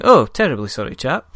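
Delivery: lightly voiced well-spoken English gnome mage; well-spoken roguish gnome. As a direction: toss off a polite English apology. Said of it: "he's well spoken".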